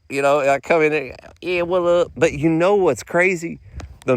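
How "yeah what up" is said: a light, higher mock greeting; casual mock "what up"; lightly voiced worker; imitating counter worker. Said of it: "they be talking like this".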